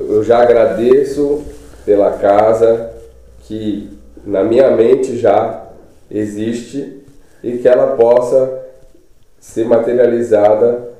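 slow, measured prayer of thanks; slow spoken prayer. Shown as a demonstration. The speaker demonstrates a prayer for a house, slow and calm. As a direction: pray it slowly, word by word. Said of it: "eu falaria assim".

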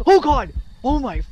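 very loud, high shriek of fright; terrified scream. Real, not acted. Player jumped by the ghost, terrified scream. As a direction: scream at a sudden scare. Jump scare in horror game.

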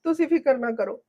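low, soft tearful voice; daughter-in-law weeping quietly to her father-in-law; crying. Acted. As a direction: hold back the tears while reassuring him. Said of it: "ਤੂੰ ਰੋ ਨਾ ਪੁੱਤ".

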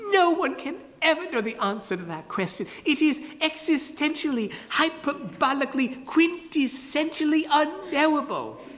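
high, pompous falsetto; grandly mysterious in falsetto; high carpenter voice. Acted. Carpenter declares the riddle unknowable in high falsetto.

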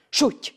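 loud, short "sutty" burst; sudden chop sound. A narrator's reading. Hero cutting off the first head, explosive. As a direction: imitate a blade strike abruptly.

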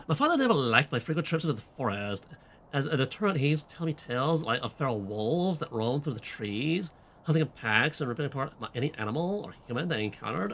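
lightly voiced teenage valley girl with a drawl; valley girl with a hint of Southern drawl; valley girl slipping southern. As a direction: read it as a pretentious teen, drifting Southern. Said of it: "when did the southern drawl enter".

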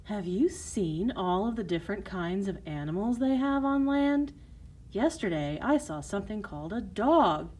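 lightly voiced sister full of news, swooping intonation; excited mermaid sister. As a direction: share an amazing discovery with your little sister.

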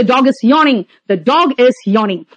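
each word spelled out slowly for the class; slow dictation. Shown as a demonstration. Teacher to students, a slow word-by-word dictation. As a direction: say it very slowly so they can write it down.

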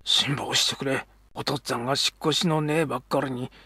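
put-on soft and hushed, pleading with the boy; hushed apology. Father hugging his son, begging forgiveness in a soft hush. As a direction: hold the boy and beg his forgiveness softly.

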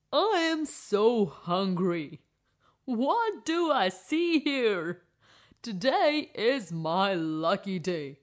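a slow, lightly voiced hungry lion. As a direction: growl it out slowly like a greedy lion. Lion speaks to old woman.

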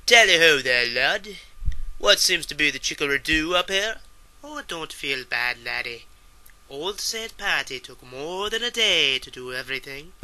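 hesitant British then Irish accent; a lightly done British-to-Irish accent. Shown as a demonstration. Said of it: "I'll try a little, uh, British and a little Irish".

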